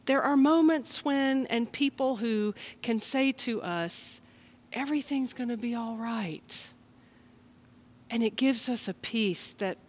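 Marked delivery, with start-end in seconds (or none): 4.7-6.7 softer, tender words; understated soft comfort; gentle reassurance. Retold or imitated. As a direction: say it like a calming hug. Sincere comfort.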